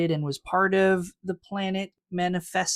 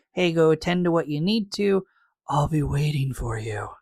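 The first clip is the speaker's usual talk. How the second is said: Ruth's odd voice. Retold or imitated. Host voices Ruth sending Kirk off, lightly put-on voice. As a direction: purr it as a hint of dreamy Ruth. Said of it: "why Ruth has that voice".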